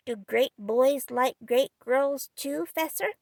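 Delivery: put-on slow, innocent small boy; artless child's question. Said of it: "artlessly inquired".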